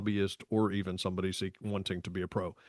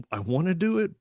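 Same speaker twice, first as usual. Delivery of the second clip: eager; 8 semitones higher than usual. Retold or imitated. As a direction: do pitched much higher, keen. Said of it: "secret thrill".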